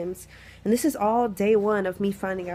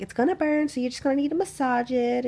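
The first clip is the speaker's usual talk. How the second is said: lightly voiced nurse, higher pitch; imitated nurse warning; 6 semitones higher than usual. Imitates nurse warning before shot.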